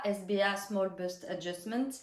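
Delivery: English term in a French speaker's English accent; a touch of English accent inside French teaching. Real, not acted. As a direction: say the English words with her own English accent. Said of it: "mon accent anglais".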